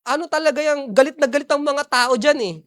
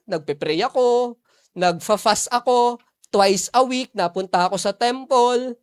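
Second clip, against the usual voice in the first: voicing the Pharisee; 3 semitones lower, slower than usual. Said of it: "Yun ang sabi ng Pharisee".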